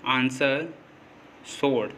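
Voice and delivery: आंसर and सोड with S straight into the vowel; silent W. Shown as a demonstration. Teacher giving examples of W after S, silent W. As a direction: say आंसर, सोड without any "w" sound. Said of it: "डब्ल्यू silent होगा".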